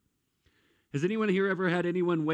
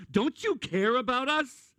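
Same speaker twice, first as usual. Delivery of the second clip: plaintive plea; 9 semitones higher, slower than usual. Retold or imitated. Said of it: "I mean, you're all powerful".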